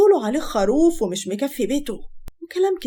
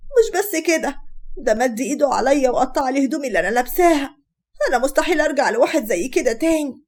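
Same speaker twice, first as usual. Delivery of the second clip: higher-pitched, lightly acted victim's complaint; feigned sadness and tears; 3 semitones higher than usual. Daughter complaining to mother about husband, faking hurt. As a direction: plead as if tearful, only mildly put on. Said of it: "وهي بتمثل الحزن والدموع".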